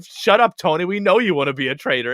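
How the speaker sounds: high, loud "Shut up" thrown at Tony; hammed-up shout of a friend silencing him; mock loud scold. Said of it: "Carolyn's going".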